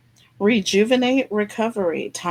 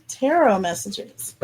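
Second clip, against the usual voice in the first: goofy. Pretend. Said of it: "I'm being silly".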